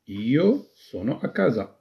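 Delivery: each word spaced out slowly for writing; slow dictation pace. Shown as a demonstration. Teacher models the Italian sentence, slow and clear. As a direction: spell it out slowly so they can write. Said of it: "كيف ستكتبها باللغة الإيطالية؟".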